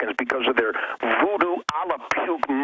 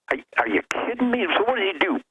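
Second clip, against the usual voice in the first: jumps up high, fast and incredulous; can't believe what he's hearing; outraged disbelief; 6 semitones higher, faster than usual. Real, not acted. Outraged at the police chief.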